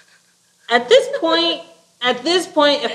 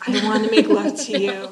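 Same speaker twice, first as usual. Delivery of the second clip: mocking cheesy line; 3 dB louder than usual. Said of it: "That he's like".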